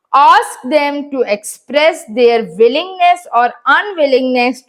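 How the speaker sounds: slow, deliberate reading aloud to pupils; measured classroom dictation; slow textbook reading. Acted. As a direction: read each word out slowly for the class. Teacher reads textbook instructions.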